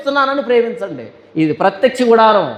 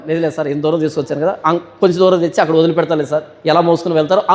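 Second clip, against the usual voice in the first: humble servant; 3 semitones lower, faster than usual. Retold or imitated. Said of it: "అను".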